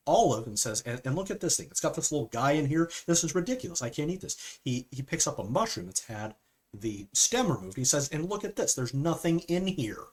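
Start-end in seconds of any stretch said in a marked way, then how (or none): 0.8-4.6 mild hammed-up exasperation; imitated freak-out. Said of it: "he starts freaking out". 8.1-10.0 high-pitched, fussy disbelief; mock indignation without raising the volume; imitated freak-out. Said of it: "he starts freaking out".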